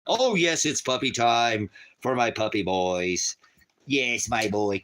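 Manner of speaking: puppy talk. Real, not acted. Owner talking to his dogs.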